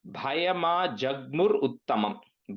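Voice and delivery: measured, word by word; careful breakdown. Shown as a demonstration. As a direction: spell out the sounds for a learner. Slower first take of word.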